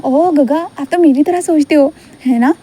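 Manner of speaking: put-on high little-boy voice, complaining about study; childlike Wing. Wing grumbles to Gaga about studying, high child voice. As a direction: play the small boy grumbling to his elder.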